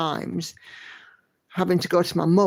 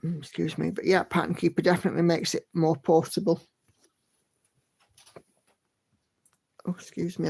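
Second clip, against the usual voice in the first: hiccups between words; hiccuping through an apology; 3 dB quieter than usual. Real, not acted. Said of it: "I've got hiccups".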